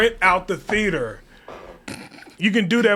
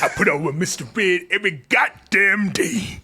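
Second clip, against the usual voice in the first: half-laughing, half-crying shout as the weary father; mock tearful father rant. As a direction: ham up the angry dad ranting through tears. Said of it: "start talking like that the rest".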